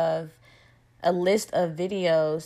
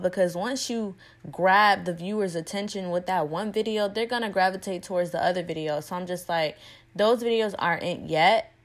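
speaking around a retainer; slightly lisped retainer speech; wearing a retainer. Real, not acted. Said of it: "sorry if I sound a little funny. I have my retainer in".

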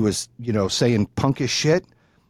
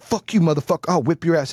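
higher-pitched mock threat; angry threat; 3 semitones higher than usual. Dad getting in the parent's face, angry threat. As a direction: imitate the dad spoiling for a fight.

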